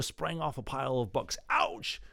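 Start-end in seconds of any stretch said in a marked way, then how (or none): 1.5-2.0 pained yelp. Acted. Electro hurts himself springing up.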